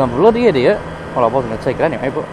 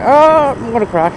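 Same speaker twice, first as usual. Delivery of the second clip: acted panic; 7 semitones higher than usual. Acts own moment of fright.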